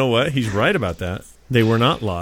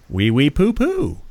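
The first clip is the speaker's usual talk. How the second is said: mock French; 3 semitones higher, slower than usual. Mocking French banter.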